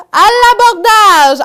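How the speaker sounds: shouted high and loud; pirate battle cry. Shown as a demonstration. Storyteller shows kids how pirates shout, loud battle cry. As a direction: yell it like a pirate boarding a ship. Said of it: "des pirates, ça crie".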